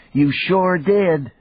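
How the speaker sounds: a daughter ribbing her dad; teasing little girl. A narrator's reading. Daughter teasing her father, playful child voice. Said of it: "Janny said and laughed".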